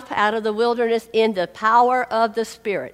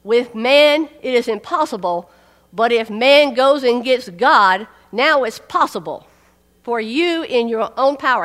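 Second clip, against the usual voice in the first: mock misquote; 5 dB louder than usual. Preacher mocking a false reading of the verse, hammed-up. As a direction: lay it on as the wrong reading. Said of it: "He did not say".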